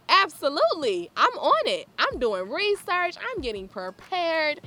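rally yourself to get to work; fired up. Real, not acted. Announcing how she got ready for the interview, fired up. Eager to start the project.

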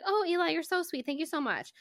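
high, sweetly grateful quote; imitated gushing thanks. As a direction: lightly mimic someone gushing with thanks. Retells gushing thanks to Eli.

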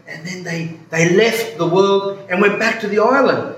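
earnest retelling, building in force; really serious tone. Retold or imitated. Man telling the priest about Gilligan's Island, really serious tone. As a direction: imitate someone solemnly recounting true events. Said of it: "started speaking in a really serious tone".

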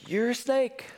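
high hammed-up denunciation with a laugh; mock fiery rebuke. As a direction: scold like an over-the-top prophet. John voiced rebuking crowd.

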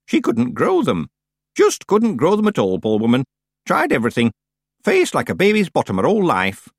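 lightly voiced old woman, lively swoops; emphatic old-witch gossip; old witch, pitying. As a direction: gossip with mock-tragic pity. Plays Miss Treason.

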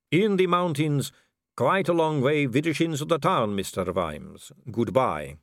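a vampire noblewoman purring at a dangling man; suave vampire lady. Acted.

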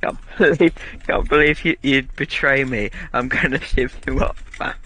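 lightly acted betrayed British road man; mock threat with a chuckle breaking in; a hint of street menace. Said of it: "turn into a road man".

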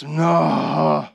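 put-on child voice. Son Otto refuses.

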